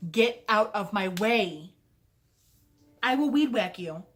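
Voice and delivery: big sister yells a half-joking threat at her sibling; mad shouting. Retold or imitated. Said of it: "And I got so mad".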